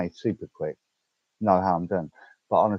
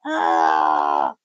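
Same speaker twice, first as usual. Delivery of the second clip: mock scream; 5 semitones lower, 5 dB louder than usual. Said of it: "So I'd have been like".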